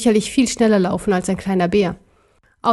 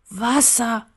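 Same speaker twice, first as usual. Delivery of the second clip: a faint breathed plea, softer; 4 dB quieter than usual. Acted. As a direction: breathe the word out, dying. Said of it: "hauchte der Kaiser".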